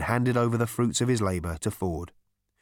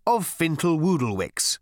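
genial chairman's announcement, pitched up; pleasant; 7 semitones higher than usual. A narrator's reading. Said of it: "he said pleasantly".

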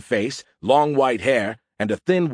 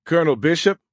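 higher, raised calling voice; pitched-up hail; 6 semitones higher, 4 dB louder than usual. A narrator's reading. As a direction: call to the colonel from another room. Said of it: "Pope called from C I C".

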